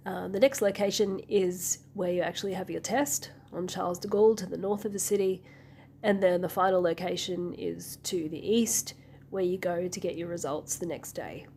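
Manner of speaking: hoarse from a cold; sick voice. Real, not acted. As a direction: talk through a sore throat. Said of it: "putting up with my sick voice".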